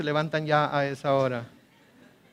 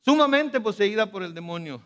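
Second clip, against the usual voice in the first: pleading cry; 5 semitones higher than usual. Retold or imitated. Mother begging Jesus to heal her daughter, crying out. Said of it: "empieza a gritarle".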